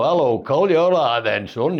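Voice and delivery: a light imitation of a neighbour's accent; Uncle Bill's accent. Imitating the uncle next door greeting young Col, neighbour's accent. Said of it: "Uncle Bill next door who taught like that".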